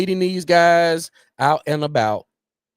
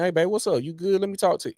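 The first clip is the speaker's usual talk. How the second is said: smooth pickup line; 5 semitones higher, 3 dB quieter than usual. Retold or imitated. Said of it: "Anthony Edwards saying".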